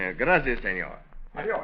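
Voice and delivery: Spanish farewell in a put-on Mexican accent; phony Mexican accent. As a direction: cop signing off in a fake Mexican accent. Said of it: "that phony accent".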